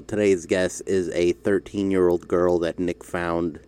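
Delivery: lightly voiced deadpan host; Adam Friedland impression. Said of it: "I can't hold the impression".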